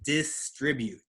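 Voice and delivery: distribute with the middle syllable leaned on; careful model word; stress on dis-TRI-bute. Shown as a demonstration. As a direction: say distribute, push the second syllable. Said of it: "The emphasis is distribute".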